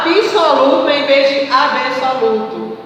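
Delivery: absoluto said as "abisoluto" then as absoluto; extra i sound in absoluto first; sound contrast. Shown as a demonstration. Teacher contrasting the extra vowel in absoluto. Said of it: "É ortoepia".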